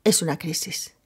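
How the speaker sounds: soft unvoiced whisper to herself; whispered thought. A narrator's reading. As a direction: breathe the thought to yourself. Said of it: "mientras Kit pensaba". (susurro para sí misma)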